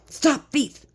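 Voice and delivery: high playful mock call. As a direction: call it out like chasing someone. Calling out a thief.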